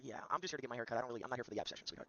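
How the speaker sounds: a hint of a low, smug character voice; lightly voiced smug stranger; troll character.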